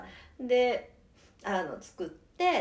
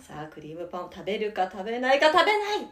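breathless rising goal commentary. Pretend. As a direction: call each wobble like a match finish. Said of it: "ずっと実況して".

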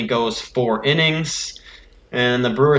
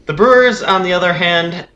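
excited; 6 semitones higher, 6 dB louder than usual. Real, not acted. Eager start to the recap.

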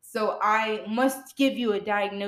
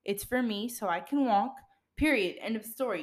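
matter of fact; 5 dB quieter than usual. Retold or imitated. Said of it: "I said it very matter of fact".

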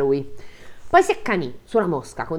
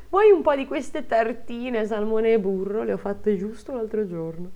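mock hostess; 4 semitones higher than usual. Wife mockingly offers butter snacks.

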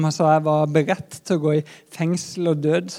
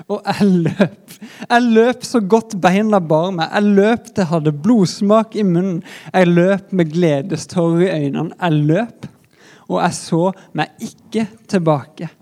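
loud and elated; 5 dB louder than usual. Acted. Running to the grave, elated.

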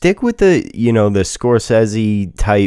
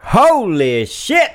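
surprised; 12 semitones higher, much slower than usual. Real, not acted. Astonished reaction to sales.

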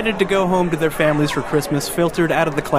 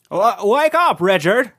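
ghostly wake-up call; 3 semitones higher than usual. Acted. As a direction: rouse him from sleep. Ghost wakes sleeping Richard.

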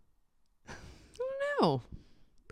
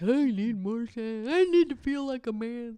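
mock needy husband; 4 semitones higher than usual. Mimicking husband's whining demands.

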